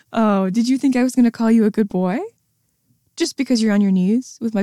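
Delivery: scornful sing-song taunt. Acted. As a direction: tease them for hoping. Taunting after cut-off praise.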